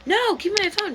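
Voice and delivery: high, loud demand for the phone; snatch the phone back, indignant; angry protest. Retold or imitated. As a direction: Shanae fighting for her phone, pretending to be mad. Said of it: "angry Shanae in the back being like".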